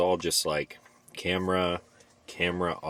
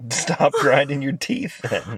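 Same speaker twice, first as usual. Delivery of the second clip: slow higher mock scolding; teasing scold; 9 semitones higher, 6 dB louder, slower than usual. Real, not acted. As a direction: tease her like a strict parent.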